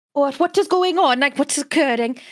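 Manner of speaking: bad Welsh accent. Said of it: "I can't do a Welsh accent to save myself".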